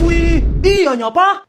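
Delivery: high, loud wow of admiration; impressed, drawn-out amazement; amazed. Acted. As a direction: marvel at the boast, voice lifted. Child amazed by father's boast.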